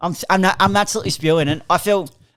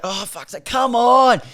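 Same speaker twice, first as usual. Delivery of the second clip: exasperated fan; 2 semitones higher, slower than usual. Acted. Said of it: "Just like".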